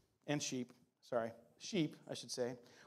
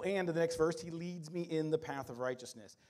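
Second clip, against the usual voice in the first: ordinary talk, nothing marked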